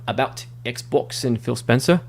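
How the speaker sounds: slipping lightly into a British accent; a touch of British in the vowels. Real, not acted. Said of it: "it's in a British accent".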